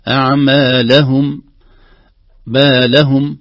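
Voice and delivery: أعمالهم with the accent on the لام; weight on the لام of بالهم; stress on the لام. Shown as a demonstration. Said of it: "على اللام لأنها آخر حرف".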